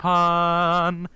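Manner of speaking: loud high yelp; excited shout. Real, not acted. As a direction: blurt it out proudly. Proud of his pun.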